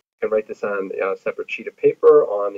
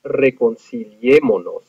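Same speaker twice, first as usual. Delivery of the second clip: reconciliémonos said slowly, stressed on the É; slow teacher's model of reconciliémonos, accent on É. Shown as a demonstration. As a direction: lean on "é" in reconciliémonos, third syllable from the end. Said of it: "the third one back, is gonna be the E".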